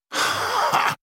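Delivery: short, airy, voiceless scoff. A narrator's reading. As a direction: puff out a dismissive ha. Scornful scoff amid challenging questions.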